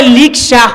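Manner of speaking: "লিকশা" with l for r; রায়পুরার টানে "লিকশা"; Raipura dialect r as l. Shown as a demonstration. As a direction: say "লিকশা", r swapped for l. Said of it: "রিক্সাকে বলে লিকশা".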